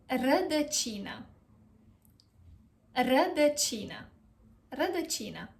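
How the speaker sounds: Rădăcină as ruh-duh-CHEE-nuh; careful model pronunciation. Shown as a demonstration. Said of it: "how do you pronounce it?".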